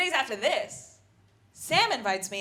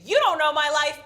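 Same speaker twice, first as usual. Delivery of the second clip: louder, higher, a hammed-up wounded cry; mock tearful outburst; 5 semitones higher, 9 dB louder than usual. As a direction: snap back in half-faked anguish. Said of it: "and I burst into tears".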